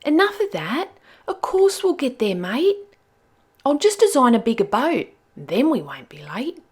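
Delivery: high, bright reassuring voice; Nell cheering Skip. Acted. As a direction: buck him up cheerfully. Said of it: "said Nell".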